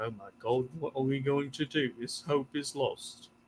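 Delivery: many voices softly murmuring together in half-whisper. Narrating a scene, voicing the crowd outside the shop talking among themselves: half-whispering and murmuring. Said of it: "just whispering and murmuring to each other like".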